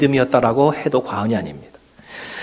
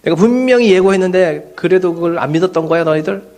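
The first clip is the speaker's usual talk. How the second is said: mock scolding; 5 semitones higher than usual. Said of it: "하면서 야단을 치실 것 같은데".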